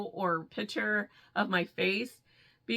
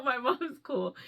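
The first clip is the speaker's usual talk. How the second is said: ordinary delivery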